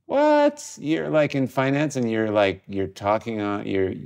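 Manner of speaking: incredulous jeer, sharp jump up on what; mocking disbelief. Sneering at a finance friend who wants to make art, incredulous. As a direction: scoff at the friend taking up art. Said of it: "People are gonna point at you and say".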